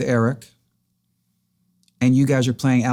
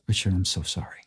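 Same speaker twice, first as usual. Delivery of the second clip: somber condolence; 6 semitones lower, 9 dB quieter than usual. Retold or imitated. Manager breaks bad news by phone.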